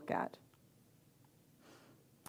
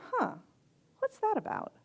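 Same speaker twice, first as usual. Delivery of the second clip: high-pitched, wondering musing; curious self-questioning; 12 semitones higher, 3 dB quieter than usual. Acted. Speaker models looking at an emotional reaction, curious and wondering. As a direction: wonder aloud, much higher than usual. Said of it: "look at it and go".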